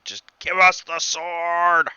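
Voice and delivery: restrained yell in a put-on voice; mild acted yell. Game master voices the attackers demanding the sword, mild yell. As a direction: call out a demand without full volume. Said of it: "like, you hear yelling".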